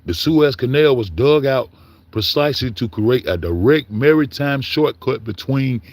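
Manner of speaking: a lightly formal read of the chatbot's reply; a hint of a proper read-out voice; reading the AI answer.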